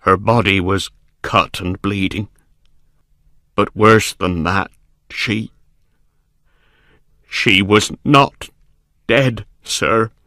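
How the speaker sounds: horrified servant. A narrator's reading. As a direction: haltingly reveal the horror, rising in pitch at the end. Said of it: "wild with fear".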